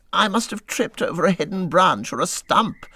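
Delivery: miserable. A narrator's reading. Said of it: "said the mole miserably".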